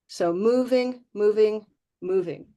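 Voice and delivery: moving said slowly with the vowel stretched; teacher drawing out moving; drawn-out demo. Shown as a demonstration. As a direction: stretch moving to show the glide. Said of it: "moving vowels".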